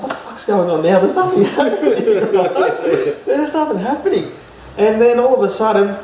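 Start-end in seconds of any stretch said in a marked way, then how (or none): 0.0-4.3 higher and laughing, mock impatient; laughing impatience. Telling the host about waiting in the sky, laughing. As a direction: giggle while you complain nothing's happening. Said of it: "and I'm like".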